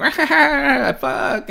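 high loud "ah" then a breathy "fuck"; yelp, then a whispered curse; mock wince and curse. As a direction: play the friend laughing off a fall. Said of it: "And they were like".

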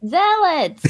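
zealots said high as ZELL-uts; emphatic correction. Real, not acted. Correcting co-host's pronunciation emphatically.

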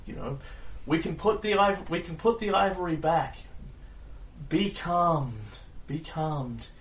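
high, urgent pleading to calm it. Acted. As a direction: talk a panicked beast down fast. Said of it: "he says".

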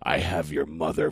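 deep, low big-man voice; booming villain voice. Acted. Host mimicking a comics writer's real voice, deep booming impression. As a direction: drop low into a mock booming threat. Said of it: "he's got this, you know, booming".

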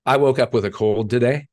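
laughing while he says it; a rueful laugh through the words. Real, not acted. Laughs about waking up sick.

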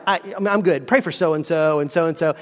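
stammered start, then low mumbled-off list; evasive. Acted. Acted dodger deflects again.

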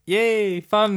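high-pitched little cheer; mock-giddy yay. Viewer reacting to a fun movie moment, cheering.

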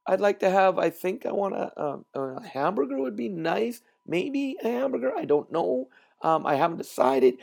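mock dithering, unsure order; imitating an undecided customer; hesitant order. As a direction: hem and haw over the order. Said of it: "It wasn't like".

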